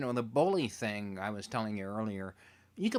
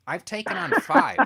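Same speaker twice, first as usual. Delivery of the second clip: high, loud bragging brag; hammed-up boast about his fights; mock tough boast; 11 dB louder than usual. Comic boast, much higher and louder.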